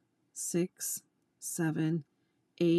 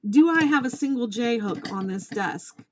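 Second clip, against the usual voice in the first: indignant; 4 semitones higher, 5 dB louder than usual. Real, not acted. Rhetorical indignant question.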